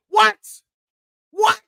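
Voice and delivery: high, loud surprised yelp; amazed what. Real, not acted. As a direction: shriek it in disbelief. Mock disbelief.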